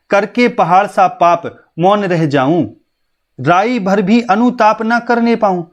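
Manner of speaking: slow, measured verse reading; poem recitation. Acted. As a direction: lift the second line as you recite slowly. (धीमा, लयबद्ध कविता पाठ)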